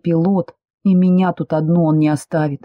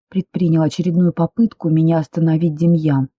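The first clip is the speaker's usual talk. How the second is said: ordinary delivery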